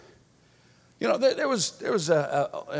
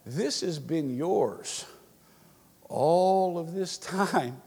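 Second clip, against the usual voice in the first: slow, measured phrases with long pauses; patient father; 3 semitones higher, slower than usual. Acted. Father answers his upset son about the inheritance, slow and patient. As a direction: lay it out for him slowly, piece by piece.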